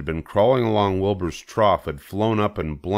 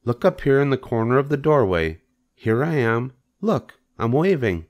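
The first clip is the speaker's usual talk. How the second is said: raised, thin spider voice; kindly Charlotte; 5 semitones higher than usual. Acted. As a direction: explain kindly in a lifted voice.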